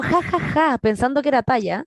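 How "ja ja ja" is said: mock ha-ha-ha, pitched higher; spoken fake laugh; imitated laughter. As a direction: imitate a crowd laughing at a joke. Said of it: "y todos como".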